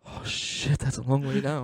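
whispered mock dread; hushed, voiceless gasp at the drop; pretend dread. Imagining himself paralyzed halfway up the tower, hushed dread. Acting himself stuck up high, scared.

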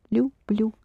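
люблю softened at beginning and end, voice dropped; hushed model of люблю with both Ls palatal; soft l. Shown as a demonstration. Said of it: "Both sounding very soft. Beginning and end".

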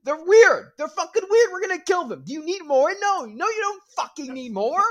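high, loud, dragged-out crusader yell; mock zealot shout. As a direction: bellow it like a fanatic.

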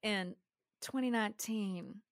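a hint of Southern Belle, stretching the words; Southern Belle accent. Reading a hotel ghost story aloud in a light Southern Belle accent. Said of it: "I'm doing this one in an accent".

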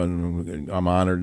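drawn-out fake humble caller; slow, syrupy mock gratitude; slow mock gushing caller. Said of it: "Don't say".

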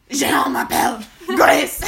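slow, exaggerated bad French accent; hammy mangled French; butchered French. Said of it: "butcher everything and be like".

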